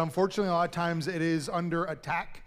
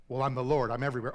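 voice of God; 4 semitones lower, much faster than usual. Acted. God answers Jack.

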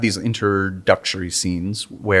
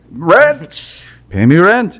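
high, loud demanding landlord; 9 semitones higher, 7 dB louder, much slower than usual. Pretend. Imitating the landlord demanding rent.

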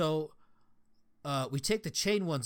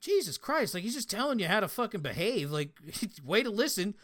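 exasperated disbelief; 5 semitones higher than usual. Retold or imitated. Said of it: "And I'm like".

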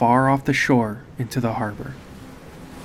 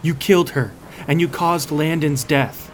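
angry accusation; 4 semitones higher than usual. Acted. Narrator accuses Oswald.

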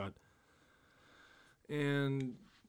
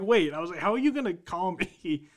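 incredulous; 4 semitones higher, 5 dB louder than usual. Retold or imitated. Retelling his disbelief.

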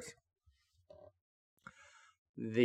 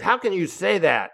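higher, louder baffled question; voiced Rick in stunned confusion; confused disbelief; 9 semitones higher, 6 dB louder than usual. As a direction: sound thrown by what you just heard. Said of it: "he had a very confused look".

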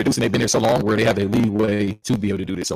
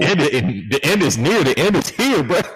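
doomsday street preacher; 5 semitones higher than usual. Acted. Echoes doomsday line, rising.

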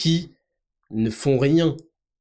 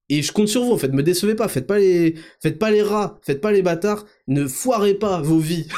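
pleading; 4 semitones higher than usual. Real, not acted. Pleading with listeners excitedly.

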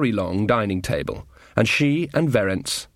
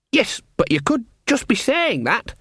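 much higher, earnest lad's voice; eager young guard; 10 semitones higher than usual. Acted. Young guard greets his mum below, high and eager. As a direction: play the keen, simple boy soldier. Sean doubts.

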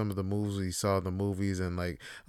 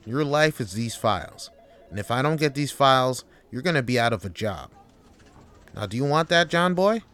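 a pushy boss with a mocking jab at the end; bully him about his job; threatening boss. Boss threatening to fire his worker, rising into a mocking jab.

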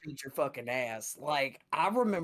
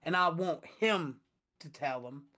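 imitating mom reporting her son; mom to manager; 4 semitones higher than usual. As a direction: tell the manager what he did. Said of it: "she was like".

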